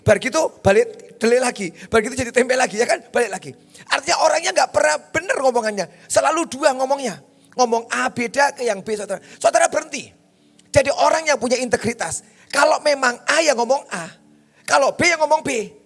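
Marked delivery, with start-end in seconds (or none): 3.9-15.7 raised, insistent preacher's voice; hard-hitting exhortation with a raised pitch; forceful preaching. Real, not acted. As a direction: drive the rebuke home, high and firm. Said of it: "Pak, kok ngomongnya keras?".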